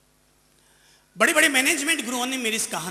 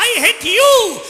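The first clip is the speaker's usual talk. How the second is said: high, loud, stretched-out cry; shouted hate; angry yell; 12 semitones higher, 13 dB louder, much slower than usual. Acted. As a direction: hurl it at the trees. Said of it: "बच्चे ने चिल्लाकर कहा".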